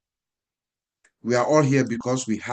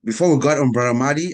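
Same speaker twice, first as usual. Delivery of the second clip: announcer call; 2 semitones higher, 6 dB louder, faster than usual. Real, not acted. Host announces next speaker.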